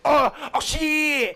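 put-on horrible Japanese accent. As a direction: cry out like a badly dubbed Japanese film. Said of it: "like, just terrible lip sync".

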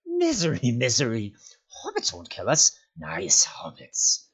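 high wailing creature whine sinking down; pitiful, wheedling creature voice; whining. A narrator's reading. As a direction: whine miserably, stretching the words. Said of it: "he whined".

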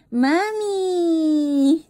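high, whiny mock wail of mami; playful crying toddler call; imitating a baby's cry. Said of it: "Pag umiiyak ka".

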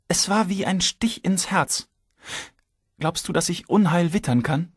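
breathy high whisper of foreboding; reluctant, hushed. A narrator's reading. Wife admitting a bad feeling to Anton, whispered. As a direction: let it out unwillingly, almost whispered. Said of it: "brachte sie dann unwillig hervor".

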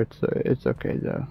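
unvoiced whisper. Real, not acted. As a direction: whisper to calm yourself. Calming self after noise.

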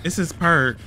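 winded after the chase; panting between words; out of breath. Real, not acted. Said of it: "Let me catch my breath".

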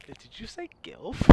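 mocking slow repeat; imitating a friend. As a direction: parrot him slowly. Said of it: "That's all he caught".

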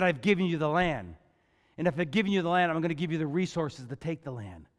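God assuring his people, low and calm; calm reassurance. Retold or imitated. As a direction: reassure them, firm but gentle.

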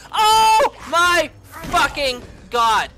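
slow, loud wail of despair; real anguished shout. Real, not acted. Gamer caught by Mister X, crying out loudly.

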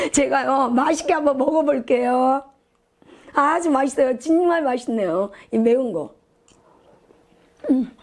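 chewing while talking; speaking between bites; mouth full. Real, not acted. Seen 0: lifts food to mouth ~2.7s, chews closed-mouth 3.9–4.4s.

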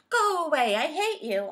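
put-on loud, high childish yell; angry shout. On shouting at Grandfather, furious. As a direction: shout it like a furious little boy. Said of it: "On shouted".

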